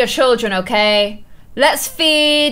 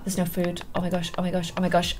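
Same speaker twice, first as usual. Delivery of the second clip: hushed panic; 9 semitones lower, 13 dB quieter, faster than usual. Real, not acted. Panics at no food.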